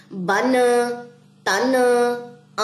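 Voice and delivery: "تن" dragged with a jolt on it; jerked wrong sound. Shown as a demonstration. Teacher shows students the wrong jerky sound. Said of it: "اس میں جھٹکے نہیں add کرنے".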